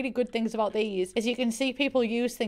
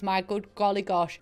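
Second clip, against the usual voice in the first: American accent. Real, not acted. Reviewer impressed by the backstory, lightly American accent. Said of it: "I defaulted to an American accent there".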